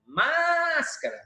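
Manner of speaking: Máscara with a long, high "Más"; calling the word. Shown as a demonstration. Teacher giving an example of proparoxítona, Máscara held high on "Más". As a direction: stretch and lift the first syllable of Máscara, then finish quickly.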